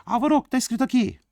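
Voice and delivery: high, rapid put-on pupil; quick, squeaky imitation of a pupil; mock student voice. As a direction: fire off a student's question in falsetto. Teacher voices a student's question.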